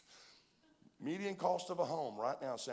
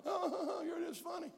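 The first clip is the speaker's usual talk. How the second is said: laughing. Retold or imitated. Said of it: "And she starts laughing".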